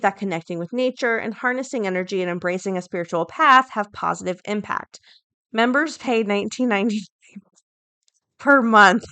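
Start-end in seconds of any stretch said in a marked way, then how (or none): 5.5-9.0 upbeat sales pitch read, ending louder; infomercial voice. Acted. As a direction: sell it like a TV ad. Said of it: "'cause it sounds like, um, an infomercial for".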